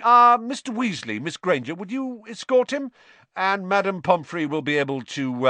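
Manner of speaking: a pompous wizard bluffing through a botched spell; vain showman teacher. Acted. Teacher reassures injured boy, airy and self-satisfied. Narrator voices Lockhart.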